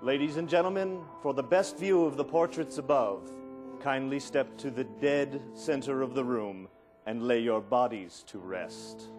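slow, solemn ghost-host drawl; a hint of a gloomy mansion butler; creepy butler. Butler spiel in Haunted Mansion.

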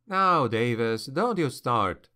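usual speaking voice

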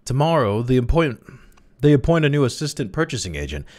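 high, eager persuasion; arguing. A narrator's reading. Crawley argues to Emily for the marriage, eager. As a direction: plead the case keenly, pitched high. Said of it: "he argued".

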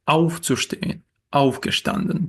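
"auf" stressed in "auf zu stehen" and "aufgestanden"; stress on first syllable. Shown as a demonstration. Teacher showing prefix stress to learners, "auf" stressed in "aufgestanden". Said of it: "наголос буде падати на перший склад".

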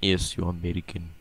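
mock Russian accent, hammed up; gruff fake Russian villain voice. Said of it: "you're using your Russian accent".

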